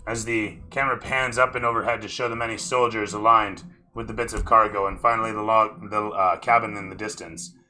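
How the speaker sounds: cinematic narrator, punching key phrases; storyteller's sweep, lingering on the last words; game master scene setting. Acted. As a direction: paint the scene with measured emphasis.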